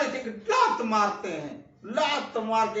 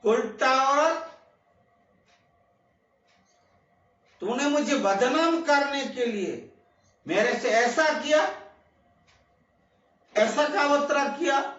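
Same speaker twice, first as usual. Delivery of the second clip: angry rebuke; 2 semitones higher than usual. Acted. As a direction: berate the scheming woman with mild heat. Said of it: "गुस्से से बोले".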